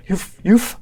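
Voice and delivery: ranting at the saboteur; enraged yell. Acted. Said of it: "he's like".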